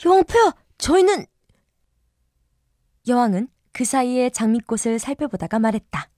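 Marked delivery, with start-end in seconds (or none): 0.0-1.2 very polite. Acted. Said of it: "매우 공손하게 말했다".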